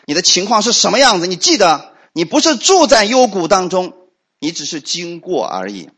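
ordinary talk, nothing marked

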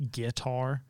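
"guitar" with stress on the first syllable, GUI-tar; Southern "guitar", first syllable hit; guitar stressed wrong. Shown as a demonstration. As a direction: drawl out "guitar" slowly, front stress. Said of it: "when people say".

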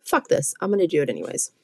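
mock-defiant, spiking high on Fuck this; half-hearted show of stubborn defiance; defiant retort. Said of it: "I get pissed off and I'm like".

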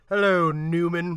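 slow, sour hello; Seinfeld Newman greeting. Retold or imitated. Greeting Nedry like Seinfeld does Newman, slow sour disdain. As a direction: drag it out with disdain. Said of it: "What do you expect from Newman".

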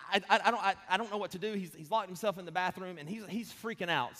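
mildly panicked, stammering report; retold panic. Wife phoning husband about their son, mildly panicked. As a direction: stumble over the first words, a touch frantic. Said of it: "she's panicked, of course, too".

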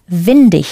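windig with a clear D and an ich ending. Shown as a demonstration. Teacher models the answer for learners, D and ich ending. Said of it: "pronounce the D and ich ending".

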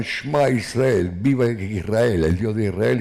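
loud, slow cry of faith; retold shout. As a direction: call it out slowly like a last prayer.

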